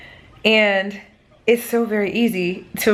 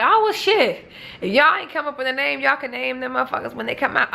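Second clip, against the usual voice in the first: higher-pitched imitation of everyone; mock outside opinion; 5 semitones higher than usual. Everyone advising expectant parents on names, lightly mocked. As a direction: lightly act out the unsolicited advice, pitched up. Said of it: "and everyone's like".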